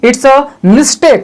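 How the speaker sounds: very slow, clear model sentence. Shown as a demonstration. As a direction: say it slowly so they can copy. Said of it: "या तो आप सीधा बोल सकते हैं". (धीरे-धीरे, साफ़ उदाहरण वाक्य)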